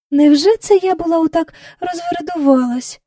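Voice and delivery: astonished question to herself; disbelieving. Acted. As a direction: wonder at yourself in disbelief. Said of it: "Аж сама не вірила вона".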